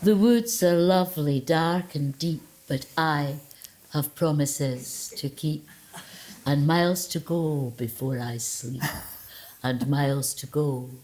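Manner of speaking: slow, pious mock recital; vicar's poetry voice. Shown as a demonstration. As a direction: ham up the churchy recitation. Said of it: "a kind of vicar's voice they pick up".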